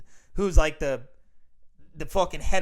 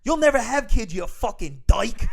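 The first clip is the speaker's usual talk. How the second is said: high, loud mock outburst at the principal; furious dad yelling; 6 semitones higher, 4 dB louder, slower than usual. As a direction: yell it like a dad who just lost it. Dad keeps yelling, retold.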